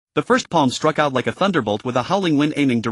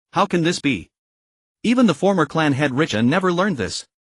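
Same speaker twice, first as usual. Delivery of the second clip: shout of disbelief. A narrator's reading. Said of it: "shouted in disbelief".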